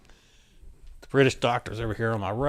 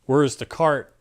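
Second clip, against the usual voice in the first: louder, higher panicked call for the cart; urgent yell; 4 semitones higher, 6 dB louder, slower than usual. Retold or imitated. Staff yelling for the crash cart, urgent. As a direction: shout for help down the hall. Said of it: "They hear somebody yelling".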